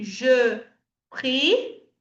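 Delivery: prie with pursed, rounded lips. Shown as a demonstration. Teacher telling students to pout on prie. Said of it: "Faz o biquinho".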